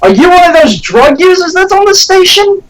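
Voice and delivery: impersonating McMillan. Acted. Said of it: "impersonation of him".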